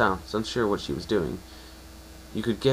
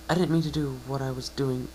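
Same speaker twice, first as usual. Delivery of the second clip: higher mare voice fading softer; sheepish mare; 5 semitones higher, 3 dB quieter than usual. Acted. Unicorn mare offering to let the pegasus go, sheepish and higher. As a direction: apologise quietly, embarrassed.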